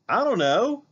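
high, loud tearful cry; tearful girl. Acted. Mallory distressed answer.

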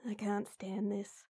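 hushed, slow, exasperated under the breath; whispered frustration; frustrated whisper. Acted. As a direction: mutter it to yourself in disbelief. Muttering in frustration.

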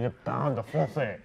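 slow "le pain de français" with nasal vowels; French pronunciation. Shown as a demonstration. Guest teaching French bread, slow nasal "le pain de français". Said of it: "if you want your French bread".

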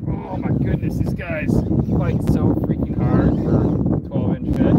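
thrilled, loud and high while reeling; excited exclaiming. Real, not acted. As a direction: exclaim at the fighting fish. Fish fighting hard, exclaiming.

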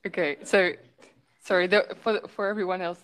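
nervous restart, words spilling out; jittery rambling. Real, not acted. Flustered after an echoing device.

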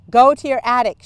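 high, loud command. A narrator's reading. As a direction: bark the order at the servant. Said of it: "she commanded".

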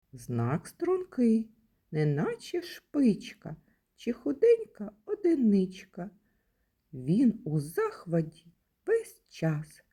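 playful rhyme, read with lively expression; teacher reciting a verse about the exclamation mark; poem for children. Acted. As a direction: recite it like a game for little kids.

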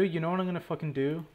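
fast, rushed, stress on you; fed-up rant. Real, not acted. Fed-up gamer repeats his plan in a fast irritated rush. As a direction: spit it out quickly in frustration. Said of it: "I've had enough of this shit".

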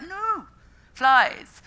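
sharp high no, then a loud punched flies; emphatic retort. Retold or imitated. Fly expert correcting bee fans, emphatic loud retort. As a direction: cut them off and insist on flies.

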